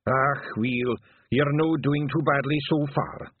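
slow, kindly Scottish brogue; nicer tone. A narrator's reading. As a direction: soften into encouragement, still Scottish. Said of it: "in a nicer tone of voice".

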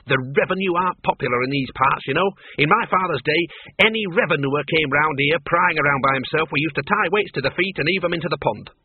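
scorn the taxman like a stubborn farmer's daughter; indignant old farm woman. Acted. Miss Flitworth boasts.

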